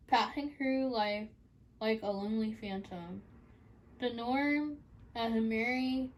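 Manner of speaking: measured poetry reading with lilting lines; earnest spoken poem; poem recital. Acted. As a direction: recite it in deliberate phrases, pausing between lines. Reads own poem aloud.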